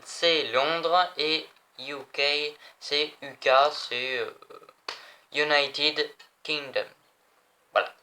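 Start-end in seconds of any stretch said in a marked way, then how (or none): 1.8-2.5 U K as English letter names, "you kay"; English-style spelling out of U K; English accent. Shown as a demonstration. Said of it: "Comment je me la pète avec mon accent". 5.3-6.9 slow, separated words in an English accent; careful English accent from a French speaker; showy English accent. Shown as a demonstration. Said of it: "Comment je me la pète avec mon accent".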